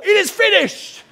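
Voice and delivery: very high, loud and drawn out; high jubilant cry; ecstatic relief. Pretend. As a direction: cry out like the debt is gone.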